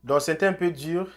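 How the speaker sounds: ordinary talk, nothing marked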